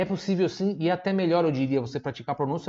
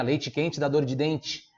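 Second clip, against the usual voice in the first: southern Santa Catarina accent; much slower than usual. Shown as a demonstration. Teacher showing own speech in southern Santa Catarina, local accent. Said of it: "E aqui eu falo assim".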